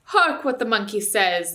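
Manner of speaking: loud, slow jeer; mocking shout. Dwarf jeering at the ape, loud and slow. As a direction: call it out loud to mock the ape. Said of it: "it shouted".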